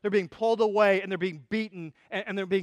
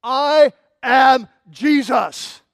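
very slow, loud and raised; booming divine voice; 5 semitones higher, 13 dB louder, much slower than usual. Acted. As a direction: proclaim it word by word from heaven. Voice from the light answers.

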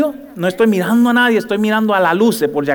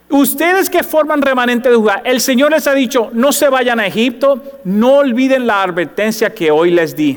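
prophetic warning; 5 semitones higher than usual. Acted. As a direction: warn the remnant from the pulpit. (advertencia del profeta, más aguda)

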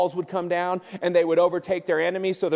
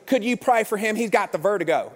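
interpreting relative; 3 semitones higher than usual. Retold or imitated. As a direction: say it plainly for someone who didn't understand. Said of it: "And she goes".

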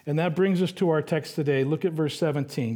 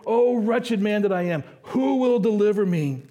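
crying out; 4 semitones higher than usual. Retold or imitated. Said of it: "he cries out".

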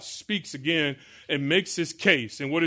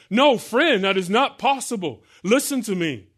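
much higher and louder, insistent; mock firm rebuke; 6 semitones higher, 5 dB louder than usual. Believer correcting a self-assured friend, loud and firm. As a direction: cut the friend off firmly. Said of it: "voiced reply to the unbeliever".

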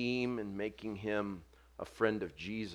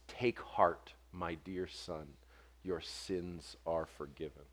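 tender; 4 semitones lower, 6 dB quieter, slower than usual. Retold or imitated. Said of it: "So gentle, so compassionate".

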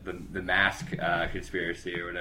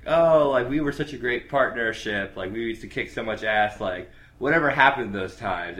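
nostalgic; 3 semitones higher, 5 dB louder than usual. Retold or imitated. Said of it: "Dan's like".

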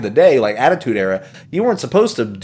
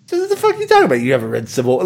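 mock disbelief; 3 semitones higher, much faster than usual. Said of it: "they're like".

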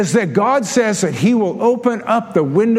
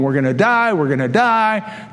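mock panic. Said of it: "completely panicking".

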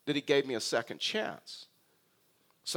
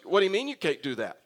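mock angry; 4 semitones higher, 4 dB louder than usual. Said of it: "And he got angry".

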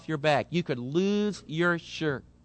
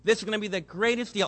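excited husband; 3 semitones higher, faster than usual. Retold or imitated. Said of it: "he listens".

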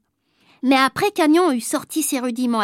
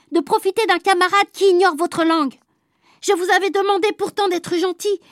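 a touch higher, scolding teacher; stern teacher; 4 semitones higher than usual. Acted. Teacher scolds the class, mildly stern.

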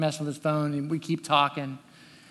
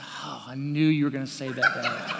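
laughing son; 3 semitones lower than usual. Retold or imitated. Son's rueful reply retold.

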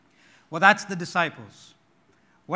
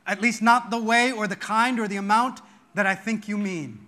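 despairing father; 3 semitones higher, 5 dB louder than usual. Retold or imitated. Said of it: "It's almost as if he says".

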